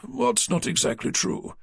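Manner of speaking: the fussy man caught off guard; puzzled publisher. A narrator's reading. Naylor's puzzled question.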